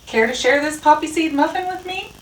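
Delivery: high, sweet pigeon voice; friendly pigeon. A narrator's reading. Pigeon invites Rat to share food, high and friendly.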